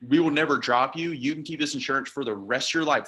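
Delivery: romanced and lifted pitch. Shown as a demonstration. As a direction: sell "We will never drop you" like big news. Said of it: "we have to romance some of it".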